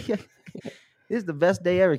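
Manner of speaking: put-on high, loud silly child voice. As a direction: squeal it like an excited kid. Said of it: "repeating louder and sillier".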